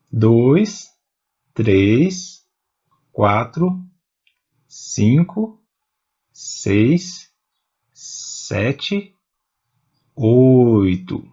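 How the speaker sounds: numbers from "dois" spaced out and rising, "oito" falling to close; deliberate list tune, resolved on "oito"; counting one by one. Shown as a demonstration. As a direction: count "dois, três, quatro" with pauses and lifted endings, then land on "oito". Counting poetic syllables one by one.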